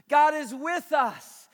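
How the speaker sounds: drawn-out, loud declaration; slow shouted proclamation. Acted. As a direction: proclaim each word slowly. Preacher repeats the name.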